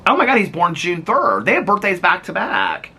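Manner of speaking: high, delighted exclamation; thrilled by the coincidence; excited discovery. Real, not acted. Discovers birthdays are adjacent.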